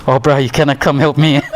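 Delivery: laughing through quote. Retold or imitated. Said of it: "He goes".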